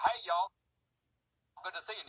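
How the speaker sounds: folksy Southern-accent greeting; Southern redneck accent. Shown as a demonstration. Comic contrasting English with Alabama, Southern-accent greeting. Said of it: "And you take, uh".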